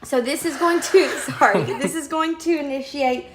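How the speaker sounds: explaining through giggles; laughing. Real, not acted. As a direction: laugh breaking into words. Breaks up laughing mid explanation.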